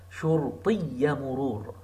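شرطي with a short i, no long ending; short final i. Shown as a demonstration. Teacher showing شرطي without lengthening. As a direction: clip the end of شرطي. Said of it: "You don't say شرطية with extension".

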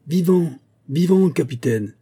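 high, loud, fervent calling; excited soldiers' cry. A narrator's reading. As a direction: clamour to your captain like fired-up soldiers. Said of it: "crièrent quelques soldats exaltés".

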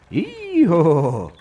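high ringing horse neigh; loud neigh. A narrator's reading. Boy voicing his bike neighing across the field. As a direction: neigh like a proud war horse. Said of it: "так голосисто заіржав він".

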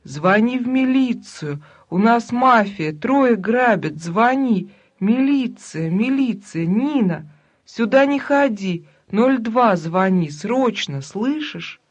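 loud, urgent cry for the police; calling for help. Acted. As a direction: shout for help from the bathroom. Бабуля зовёт на помощь. (громкий призыв о помощи)

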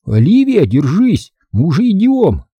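loud, high calling shout. A narrator's reading. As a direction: call down the stairwell. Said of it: "Чарли позвал".

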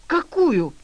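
startled. A narrator's reading. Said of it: "вздрогнул Сморчок".

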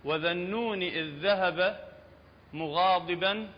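slow, measured Quran recitation; tajweed-style reading. Shown as a demonstration. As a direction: recite it slowly, letter by letter. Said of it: "خلي نكتبهن".

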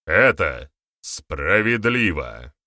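slow, СПРАВЕДЛИВО set apart and weighted; emphatic. A narrator's reading. Boryata contradicts the elder, slow and emphatic. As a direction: press each word, leaning on СПРАВЕДЛИВО. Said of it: "с нажимом произнёс Борята".

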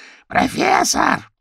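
very high, drawn-out crow shriek; high desperate crow cry; shouting up high. A narrator's reading. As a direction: scream it up to the owl in the sky. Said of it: "закричала она".

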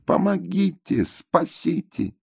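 yelling for help. A narrator's reading. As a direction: wail for rescue. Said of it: "опять орут". (протяжный крик о помощи)

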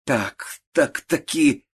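put-on sick old aunt flaring up in fury; angry outburst. A narrator's reading. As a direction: snap at her in anger. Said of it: "вскричала тётушка с гневом".

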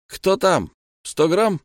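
called out high and loud; calling out. Acted. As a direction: shout toward the door. Calling through the door.

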